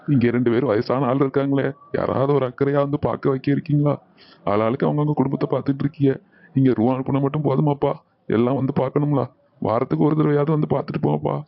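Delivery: put-on an old man's weepy complaint; tearful reproach. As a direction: plead with neglectful children, close to tears. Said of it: "அழாதீங்க தாத்தா".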